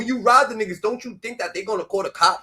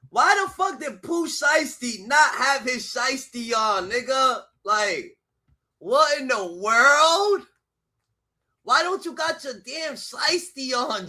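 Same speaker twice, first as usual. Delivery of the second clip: outraged shout; 4 semitones higher, slower than usual. Real, not acted. Outraged yelling about the mask.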